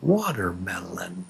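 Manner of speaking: "Watermelon" stretched slowly beat by beat; syllable by syllable. Shown as a demonstration. Teacher counts the beats for students, "Watermelon" syllable by syllable. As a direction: draw out each syllable of "Watermelon". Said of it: "How many beats?".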